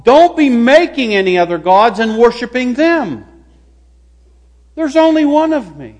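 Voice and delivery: lightly voiced God, emphatic warning; God commanding. God giving the second commandment, lightly acted command. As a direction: lay down the rule firmly to the people. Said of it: "God said".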